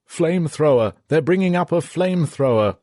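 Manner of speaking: high, loud alarmed shout; yelled warning. A narrator's reading. Soldier at the peephole warns the men, loud high yell. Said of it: "Suddenly he yelled".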